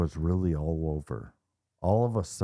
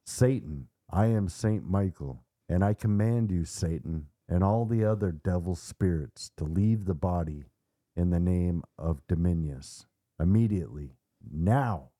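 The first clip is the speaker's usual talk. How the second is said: lightly voiced command with dignity; commanding, dignified. Archangel orders Satan out of the boy, understated commanding tone. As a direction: give a measured, solemn order. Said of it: "commanding tones and with dignity".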